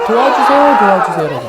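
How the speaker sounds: loud, high plea for help; calling from afar. Retold or imitated. Lepers calling to Jesus from afar, loud plea. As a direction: cry out from a distance. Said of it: "멀리서 소리를 지르면서".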